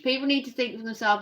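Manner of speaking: rattled off fast, stress on need; quick restatement. Shown as a demonstration. Streamer rushing to restate the viewer's message, fast. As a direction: repeat the chat message quickly, leaning on "need". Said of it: "what was your message?".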